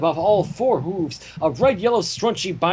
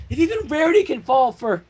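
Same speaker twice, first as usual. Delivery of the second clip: wailing on; 8 semitones higher than usual. Acted. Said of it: "Cadance wailed".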